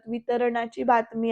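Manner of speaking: calm correction. Retold or imitated. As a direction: patiently model the words "वितरणाची बातमी". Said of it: "समजावतात शांतपणाने आणि सुधारणा करतात".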